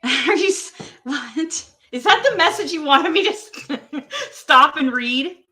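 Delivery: high, loud, laughing through the words; can't believe it, cracking up; laughing disbelief. Real, not acted. Reacting to Don's message, laughing in disbelief.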